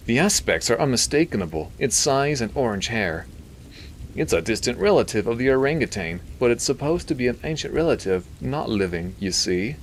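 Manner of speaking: high nasally lecturing scientist; Milton. A narrator's reading. Doctor explaining the ape to the priest, nasally. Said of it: "He had a nasally voice".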